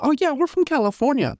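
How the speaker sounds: put-on high breezy California girl; chirpy valley-girl voice; American valley accent. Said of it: "the most American accents".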